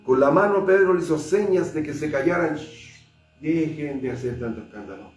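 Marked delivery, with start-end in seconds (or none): 2.6-5.1 hushing. Acted. Peter hushing the startled believers.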